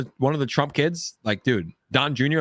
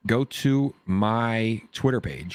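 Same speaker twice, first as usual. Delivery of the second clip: slow, stretched-out announcing; slow drawn-out; much slower than usual. Pretend. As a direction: drag each word out slowly. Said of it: "slow repeated take".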